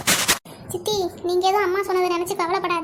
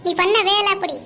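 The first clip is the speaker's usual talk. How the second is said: firm, indignant scolding; angry rebuke. Acted. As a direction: tell off an estranged sister with rising indignation. Older sister angrily rebuffs younger sister.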